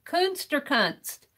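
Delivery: Kunst first with long oo, then with short uh, quietly. Shown as a demonstration. Streamer checks the Dutch vowel, quiet and careful. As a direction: weigh the two vowels of Kunst. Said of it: "A long U".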